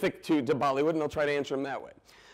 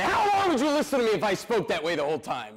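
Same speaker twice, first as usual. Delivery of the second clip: higher, punchy question to the crowd; sudden lively switch; 5 semitones higher than usual. Retold or imitated. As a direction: burst out of the boring act to wake them. Breaks out of boring act.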